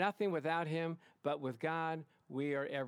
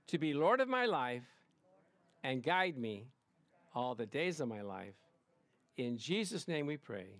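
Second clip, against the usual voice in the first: repeat-after-me prayer. Real, not acted. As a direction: lead the congregation phrase by phrase.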